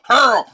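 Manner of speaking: loud high mock retching "Hurl". Coach jokes about a client gagging on the words, loud mock retch. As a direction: fake gagging as a joke, big and high. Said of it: "But if you go".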